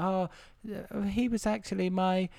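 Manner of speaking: slow Essex whine; drawn-out Essex lament; Essex accent. Retold or imitated. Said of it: "very strong Essex accents".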